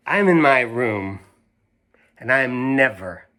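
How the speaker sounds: put-on lively read-aloud to kids; reading to children. A narrator's reading. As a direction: read it like story time for young listeners. Reads picture book aloud.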